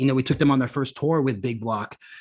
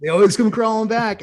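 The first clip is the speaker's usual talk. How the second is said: gleeful echo; 9 semitones higher, 5 dB louder than usual. Real, not acted. Gleefully echoing friend's joke.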